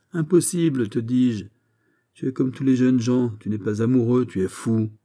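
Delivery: high-pitched, insistent dismissal; exasperated scolding. Acted. Captain to lovesick young man, exasperated. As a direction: tell the young fool off.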